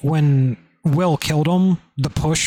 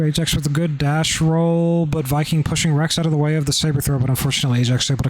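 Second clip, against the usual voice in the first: auctioneer. Real, not acted. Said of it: "I feel like an auctioneer when I start talking like that".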